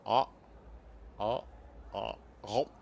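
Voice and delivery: calm little ahs, braced for fruit; ready to catch. Shown as a demonstration. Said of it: "so then I can go".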